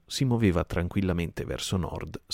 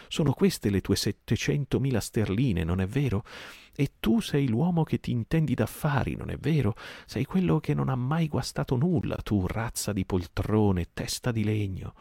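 angry pirate; 6 semitones higher than usual. Acted. Merry mocks Silver before the crew, furious higher taunt. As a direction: jeer at him, climbing in fury.

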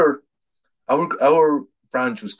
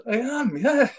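imitating a flat Athlone accent, pitched higher. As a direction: answer plainly like an Athlone man. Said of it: "in the flattest Athlone accent".

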